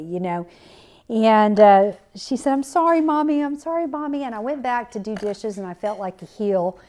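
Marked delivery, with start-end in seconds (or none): 2.5-4.2 higher-pitched, lightly imitated little girl; a hint of a sorry child, pleading to be forgiven; repentant child. Repentant little girl to her mother, lightly imitated apology. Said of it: "she was repentant easily".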